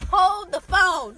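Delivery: very slow, loud interjection; mock dramatic halt. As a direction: stretch each word out, loudly. Mock halt after the joke.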